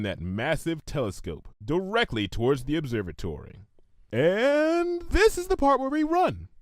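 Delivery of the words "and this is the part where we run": Lyra voice. A narrator's reading. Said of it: "said Lyra".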